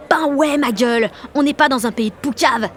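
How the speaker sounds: cocky defiance. Acted. Jeanne taunts the supervisor before the queue, cocky defiance. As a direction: throw it back for all to hear.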